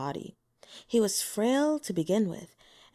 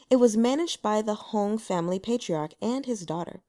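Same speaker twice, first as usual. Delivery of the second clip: usual speaking voice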